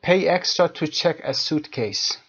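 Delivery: slow, careful textbook read. Shown as a demonstration. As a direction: read it out slowly for learners. Teacher reads textbook phrase.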